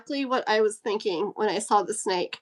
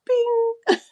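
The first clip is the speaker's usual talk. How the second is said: excited bing; 13 semitones higher, 5 dB louder than usual. Real, not acted. Excited chat lights up.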